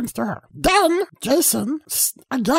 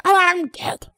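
mock dying gasp; 3 semitones higher than usual. Shown as a demonstration. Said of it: "Like that".

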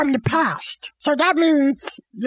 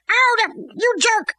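higher, indignant yelp, played lightly; mock hurt outrage; 5 semitones higher than usual. Hamlet protests being stabbed by Laertes, mock hurt. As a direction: act out a pained protest.

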